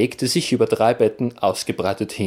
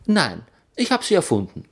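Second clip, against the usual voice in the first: casual; 7 semitones higher, faster than usual. Acted. Narrator admits inventing legends.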